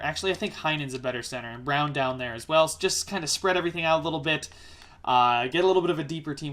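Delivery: real fast, run-on commentary; rapid talk. Real, not acted. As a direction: rattle it off quickly, thinking aloud. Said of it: "I know I'm speaking super fast".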